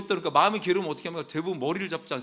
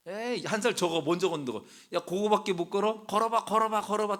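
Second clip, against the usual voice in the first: higher-pitched sibling taunt; mock teasing; 3 semitones higher than usual. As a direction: tease a toddler learning to walk. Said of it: "이삭을 막 놀리고 있는 거야". (놀리는 말투)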